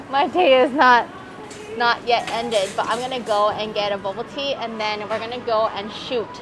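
muffled behind surgical mask; talking masked in cafe; through a face mask. Real, not acted. Seen 5: Disposable mask covers mouth and nose throughout the labelled words.

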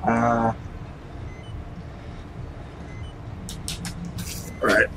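talking around something in mouth; mouth full. Real, not acted. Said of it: "get that out of my mouth".

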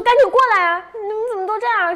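high, loud bossy scolding; scolding like an adult. Retold or imitated. Girl scolding her friends to hurry out, loud adult-like scolding. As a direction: scold the kids like an impatient grown-up. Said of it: "我就跟一个大人一样".

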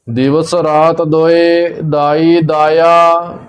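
slow, measured recitation on a level tone; scripture recitation. Acted. Teacher reciting Gurbani for learners, slow measured recitation. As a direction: recite line by line, drawing out the vowels.

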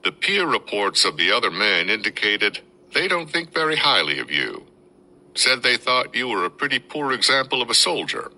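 lightly voiced Pennsylvania twang, calm; measured and unhurried, testing him; a hint of a steady sergeant major. A narrator's reading. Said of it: "His voice was calm and measured".

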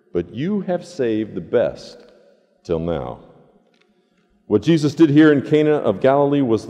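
measured, solemn reading of the Gospel; scripture reading. Acted. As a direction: read the Word aloud to the congregation. Pastor reads John 2 aloud.

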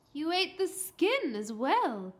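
astonished mum; incredulous. A narrator's reading. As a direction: question it in disbelief. Mum surprised he ate skin.

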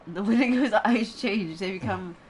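laughing while reading. Real, not acted. Reading while friend interrupts.

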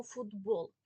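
«футбол» with т voiced to д, фудбол; spoken pronunciation. Shown as a demonstration. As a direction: let the т in «футбол» turn into д. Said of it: "але вимовляємо і чуємо". (вимова з дзвінким д: «фудбол»)

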